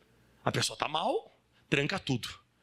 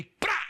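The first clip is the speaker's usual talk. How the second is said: imitated sting strike; 3 dB louder than usual.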